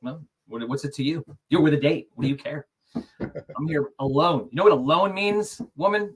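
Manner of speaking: mock sulky retort. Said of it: "kinda that vibe".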